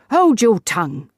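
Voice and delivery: put-on old lady silences Wotton, sharp and loud; sharp rebuke. A narrator's reading.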